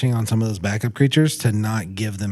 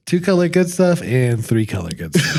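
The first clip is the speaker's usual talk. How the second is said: playful sarcastic listing, voice a bit higher; mock facetious; 5 semitones higher, 3 dB louder than usual. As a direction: tease Andrew by reading his picks with a put-on voice. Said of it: "I know, I'm being, I'm being facetious".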